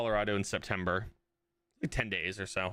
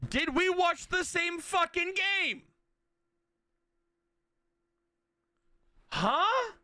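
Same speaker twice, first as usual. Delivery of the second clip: mock fan voice; slower than usual. Mocking an opposing fan.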